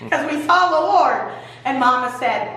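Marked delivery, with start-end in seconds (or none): 0.1-1.2 freaking out. Acted. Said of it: "Daddy's all freaking out".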